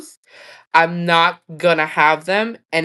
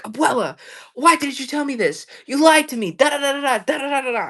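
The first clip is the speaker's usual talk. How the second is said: whiny accuser; 7 semitones higher than usual. Retold or imitated. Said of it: "they come to me like".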